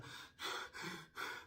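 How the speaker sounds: soft, voiceless catching breaths; imitated tearful breaths. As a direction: mimic someone struggling to compose herself. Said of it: "compose herself to where she could actually start talking".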